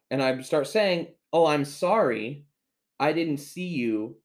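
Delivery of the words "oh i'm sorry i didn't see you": slow, stretched-out retold apology; drawn-out apology. Customer apologizing to an offended clerk, slow and drawn out. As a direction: draw the apology out slowly.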